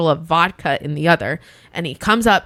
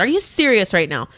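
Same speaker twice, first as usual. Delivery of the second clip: incredulous, closer to usual pitch; unprofessional disbelief. Retold or imitated. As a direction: ask it in contained disbelief. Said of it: "all my professionalism was just, like, out the door".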